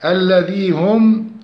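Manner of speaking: slow الذي هم with a clean, unmerged m; clear meem. Shown as a demonstration. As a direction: sound the m of هم clearly. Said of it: "إظهار الميم".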